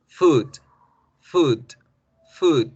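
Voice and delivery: "Food" said with a long oo, falling and loud; listening drill model. Shown as a demonstration. Teacher testing students on pie or comida, clear drill model. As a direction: repeat "food" as separate, drawn-out falling words. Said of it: "también el sonido de las consonantes".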